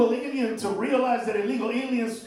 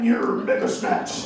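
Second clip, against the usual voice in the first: much lower, slow Decepticon growl; villain robot voice; 4 dB louder, slower than usual. Pretend. Comic naming the Transformers villain, deep and slow. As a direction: drop deep like Megatron.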